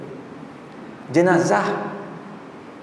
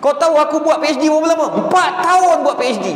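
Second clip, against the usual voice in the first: higher, fast, indignant boasting; mock angry boast; 5 semitones higher than usual. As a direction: show off the years of the PhD. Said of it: "Oh, marah dia". (meniru marah bangga dengan PhD)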